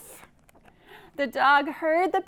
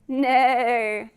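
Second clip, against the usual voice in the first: neigh; 5 dB louder than usual. Shown as a demonstration. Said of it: "what does she say".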